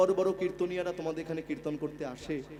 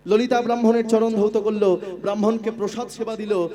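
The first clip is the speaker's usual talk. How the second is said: raised, animated devotional narration; kirtan storytelling; 3 semitones higher, 7 dB louder than usual. A narrator's reading. Kirtan singer telling devotees of the sleepless Brahmin, lifted storytelling. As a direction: tell the sacred tale in a lifted, carrying voice.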